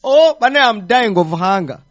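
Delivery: very high, loud whiny wail; mock dramatic complaint. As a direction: ham up a starving plea.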